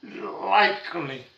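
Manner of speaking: "likely" drawn out with a long first sound; stress on LIKELY. Real, not acted. Teacher cautioning students it is not a hundred percent, stressing "likely". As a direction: lean slowly on the word "likely". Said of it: "I emphasize the word".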